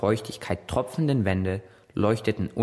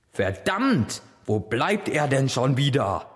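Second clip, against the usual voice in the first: ungeduldig fluchen; 4 semitones higher than usual. Acted. Poseidon wartet wütend.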